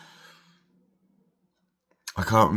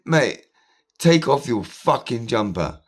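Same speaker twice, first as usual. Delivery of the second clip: 1 angry demand; 5 semitones higher than usual. Retold or imitated. Retold confrontation.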